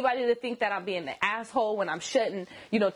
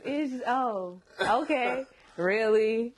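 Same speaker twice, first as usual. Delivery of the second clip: sarcastic; much slower than usual. Shown as a demonstration. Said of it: "my sarcastic joke is".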